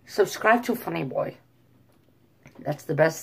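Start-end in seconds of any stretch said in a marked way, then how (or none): 0.1-1.4 lilting, higher attempt at a Swedish accent; rough Scandinavian accent, Swedish style. Shown as a demonstration. Vlogger doing his best Scandinavian accent, mock Swedish.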